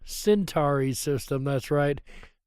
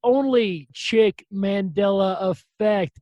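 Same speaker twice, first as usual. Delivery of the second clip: announcer hype; 4 semitones higher, 4 dB louder than usual. Real, not acted. Host introduces his first guest.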